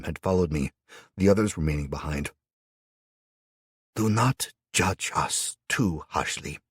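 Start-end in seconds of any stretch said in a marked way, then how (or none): 4.0-6.6 gentle. Acted. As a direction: speak gently, asking for mercy. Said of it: "the imam said gently".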